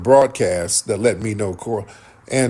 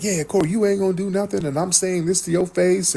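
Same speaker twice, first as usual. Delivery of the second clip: higher-pitched imitated defiance; retold taunt; 9 semitones higher than usual. Anton defying Corey to his face, retold taunt. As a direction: act out a quick, high taunt.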